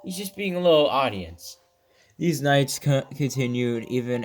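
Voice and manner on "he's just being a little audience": a fan cheering at the page; cheerful coaxing. Real, not acted. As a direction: egg the shy wolf on. Reader coaxing the wolf.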